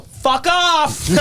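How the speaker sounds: mock rude brush-off. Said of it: "I'd go".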